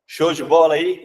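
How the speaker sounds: lazy, too casual teacher; overly relaxed greeting; slouchy casual. Shown as a demonstration. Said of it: "ministrando essa aula assim, ó".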